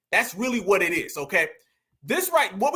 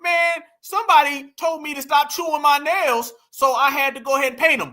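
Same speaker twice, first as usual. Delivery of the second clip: lightly mocking imitation, pitched higher; mock excuse-making; 4 semitones higher, 4 dB louder than usual. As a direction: offer a mock excuse, higher and a little louder. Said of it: "he put out a little excuse".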